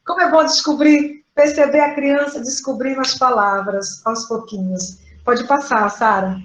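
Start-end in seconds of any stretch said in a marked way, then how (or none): 0.1-5.0 soft, moved inner voice; hushed, touched teacher's delight; quiet joy. Retold or imitated. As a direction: marvel quietly to yourself. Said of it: "Eu fiquei assim".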